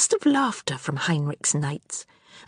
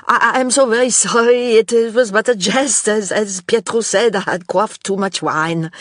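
higher, louder, tremulous stammering apology; panicked stammer; 4 semitones higher, 6 dB louder than usual. A narrator's reading. Knight begging the empress's pardon, higher, louder, panicked. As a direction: gabble the apology in terror. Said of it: "his voice high-pitched and tremulous".

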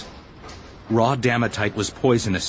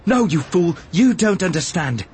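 raised, higher-pitched rebuttal; sharp retort; 5 semitones higher than usual. A narrator's reading. Obi-Wan arguing with stubborn Arad, sharp retort. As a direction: cut in and contradict him. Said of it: "he retorted".

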